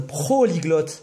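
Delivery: "Prolyglotte" stretched out slowly, each syllable drawn; slow, savoured word. Shown as a demonstration. Joking to a friend about his English, slow proud "Prolyglotte". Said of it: "il y a le prolyglotte".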